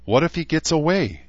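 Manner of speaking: high, worried unicorn voice; high-pitched fretful question; anxious squeak. A narrator's reading. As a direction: squeak the worry out. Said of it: "Barb squeaked".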